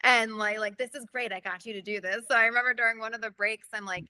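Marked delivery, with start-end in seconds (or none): 0.8-2.2 mocking character. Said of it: "as my character".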